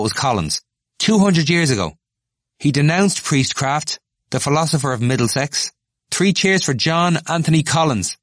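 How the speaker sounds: high, loud, feverish; a zealot whipping up cheers; frothing harangue. Acted. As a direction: rant it with foam at the mouth. Temple foaming harangue.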